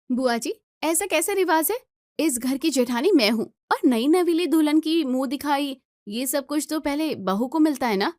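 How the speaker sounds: indignant bride. Acted. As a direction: protest that the elder gets it first.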